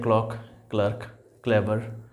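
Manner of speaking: teacher modelling the hard k that starts क्लॉक, क्लर्क, क्लेवर; reading demonstration. Shown as a demonstration. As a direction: read क्लॉक, क्लर्क, क्लेवर one by one, each opening on a k sound. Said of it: "इसको पढ़ते हैं".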